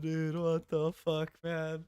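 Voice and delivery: ordinary talk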